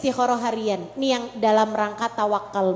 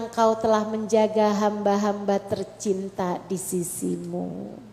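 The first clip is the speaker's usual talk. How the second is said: entrust your family in a hushed voice; tender prayer; 3 semitones lower than usual. Shown as a demonstration.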